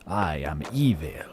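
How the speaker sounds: low, rasping whisper of a villain; Darth Sidious whisper. Pretend. Streamer doing his evil cold voice, whispered Sith. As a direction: breathe it like a dark lord. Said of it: "sound like Darth Sidious".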